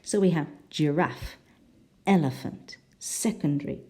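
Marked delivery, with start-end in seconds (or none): 0.7-1.4 "giraffe" stressed on the second syllable. Shown as a demonstration. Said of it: "the second syllable". 2.1-2.8 "elephant" stressed on the first syllable. Shown as a demonstration. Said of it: "the first syllable". 3.0-3.8 "secondary" stressed on the first syllable. Shown as a demonstration. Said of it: "the first syllable".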